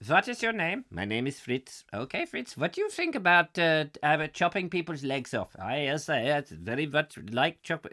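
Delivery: badly held German accent, slipping as it goes; comic German accent. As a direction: play both interviewer and recruit in hammy German. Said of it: "I'll have to do the accent".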